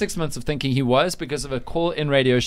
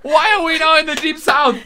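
high, loud, laughing mock Southern accent; mock Southern drawl; 13 semitones higher, 6 dB louder than usual. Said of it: "Marley's accent sound Texan".

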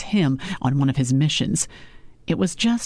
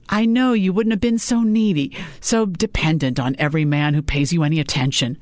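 a hint of a scolding mother; mother lecturing her daughter about men; 2 semitones higher than usual. Mother blaming father.

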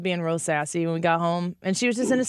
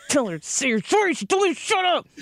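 higher, half-laughing plea to dad; pleading mom; 8 semitones higher than usual. Retold or imitated. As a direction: beg your husband for backup, laughing. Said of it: "I'm like".

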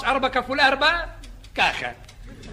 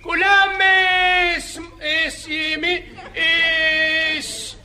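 calling out; 5 semitones higher, much slower than usual. Acted. Lifeguard calling to swimmers.

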